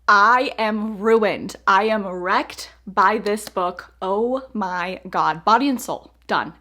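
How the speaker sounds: overwhelmed. Real, not acted. Says the ending wrecked her.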